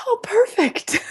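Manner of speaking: high laughing "oh perfect"; 웃으며 비꼬듯; laughing irony. Real, not acted. Ironic laugh at coincidence.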